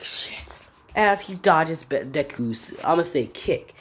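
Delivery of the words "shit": whispered, drawn-out swear; mock dismay in a voiceless whisper; hushed curse. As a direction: whisper the curse in retold alarm. Retold shocked reaction to attack.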